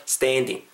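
"standing" with a wide, gliding steh-en vowel; spread-lipped vowel. Shown as a demonstration. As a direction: lips pulled sideways on "standing". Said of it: "양옆을 옆으로 좀 째시면서".

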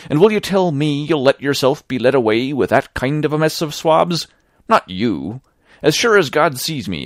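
an honest seaman pleading hard, voice trembling; frightened sailor urging his old mate, hoarse and shaking. Acted. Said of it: "spoke as hoarse as a crow, and his voice shook".

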